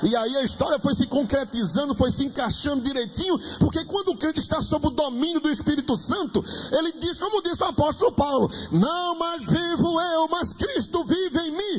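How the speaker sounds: high, driving sermon delivery; fervent preaching. Real, not acted. Preacher quoting the apostle Paul to the congregation, fervent preaching.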